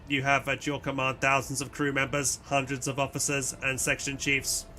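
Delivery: measured, machine-like delivery; robot voice. Acted. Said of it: "some robotic voice".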